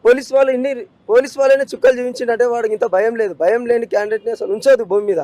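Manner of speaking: loud, heated accusation; angry outburst. Real, not acted. Grieving father to reporter, loud and furious. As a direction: hammer the point home in real anger.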